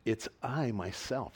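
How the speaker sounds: slow, deliberate stress on "I myself"; measured emphasis on "I"; emphatic. Acted. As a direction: draw out "It's I myself" with weight. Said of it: "It's emphatic".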